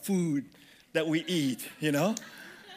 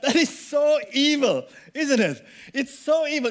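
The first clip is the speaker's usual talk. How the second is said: laughing mock outrage; 6 semitones higher, 5 dB louder than usual. Real, not acted. Preacher mock-shocked, laughing.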